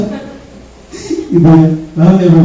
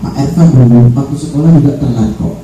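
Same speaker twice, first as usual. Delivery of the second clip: reassuring; 3 semitones lower than usual. Shown as a demonstration. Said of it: "kita kembalikan lagi ke posisi awal".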